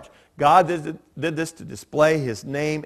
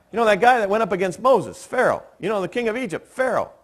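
higher-pitched, mock-exasperated explanation; retold insistent explaining; 7 semitones higher, faster than usual. Son explaining a name to his confused dad, mock-insistent. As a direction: spell it out to someone who isn't getting it.

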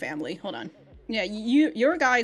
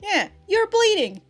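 mock worried, higher pitch; concerned high voice; 10 semitones higher, 4 dB louder than usual. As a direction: voice his alarm at her wound, high. Voicing Kirishima's concern for Yoshino.

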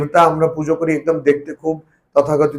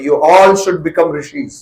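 slow solemn quote; much slower than usual. Retold or imitated. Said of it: "Swamiji একটা বড় কথা বলছেন".

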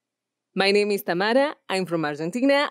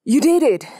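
loud, higher gloating cry; triumphant shout; 6 semitones higher, 7 dB louder than usual. Shown as a demonstration. Villain gloating at the warrior, loud triumphant shout. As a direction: crow over the victory.

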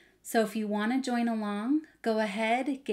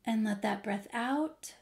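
guided meditation. Acted. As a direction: gently settle listeners into stillness. Leads a breathing pause.

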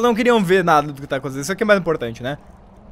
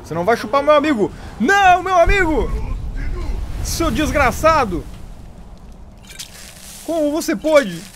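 mock dramatic outrage; 8 semitones higher than usual. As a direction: wail over a fallen friend like a soap opera. Mock outrage as ally is eaten.

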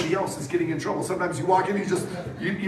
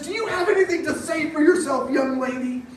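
higher, louder mock-stern scolding; stern father; 7 semitones higher, 4 dB louder than usual. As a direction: play the fed-up dad demanding an answer. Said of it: "finally he says".

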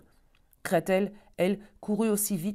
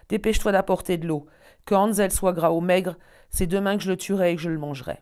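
louder, hurried witch threat; impatient shout; 3 semitones higher, 6 dB louder than usual. Acted. Witch ordering Gretel louder, speeding up at the end. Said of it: "cria-t-elle".

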